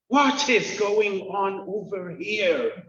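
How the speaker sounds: slow, puzzled Irish brogue; joke-telling Irish accent, slow and baffled. Retold or imitated. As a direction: put on an Irish accent, slowly bewildered. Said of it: "in a deep Irish accent".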